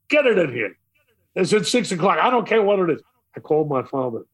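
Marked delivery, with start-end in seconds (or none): 0.1-3.0 demanding boss. Retold or imitated. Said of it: "I was scared stiff".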